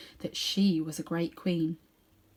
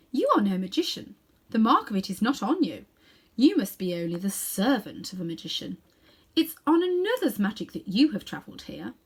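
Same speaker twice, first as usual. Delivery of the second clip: louder, regal pronouncement; commanding queen; 3 dB louder than usual. Acted. Queen judges Diggory after studying his face, loud and regal. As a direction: judge him coldly. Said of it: "she let go of his chin and said".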